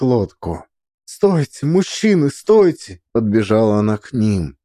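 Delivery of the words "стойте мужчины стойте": calling out. Acted. Running to men, calling out.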